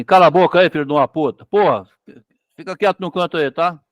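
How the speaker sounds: a touch of a rough father's yell; mock angry father. Teacher imitating a father scolding his child, mock rough shout. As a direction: bark it like a fed-up dad, half-playing. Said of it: "Se é o pai, fala assim".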